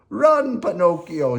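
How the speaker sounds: loud, high urgent shout; Geppetto shouting. Acted. Geppetto urging Pinocchio to flee Stromboli, loud shout. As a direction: yell at the boy to run. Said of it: "shouted Geppetto".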